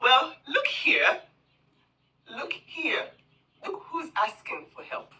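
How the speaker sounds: mock the sender's smug gotcha; mocking quoted message. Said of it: "I got a message saying".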